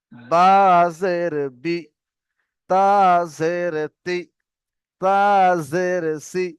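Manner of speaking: letter, pause, then a brief i syllable; short i vowel. Shown as a demonstration. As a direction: chant the spelling, ending "বি", "তি", "সি" short. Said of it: "ইর মতো". ("বি", "তি", "সি" হ্রস্ব ই দিয়ে)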